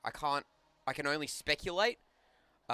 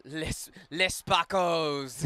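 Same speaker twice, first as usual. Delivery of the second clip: put-on French accent; much slower than usual. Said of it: "put on a bad French accent".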